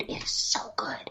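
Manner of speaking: whispered aside; confiding whisper. Real, not acted. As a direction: drop to a breathy whisper. Whispered aside about dude.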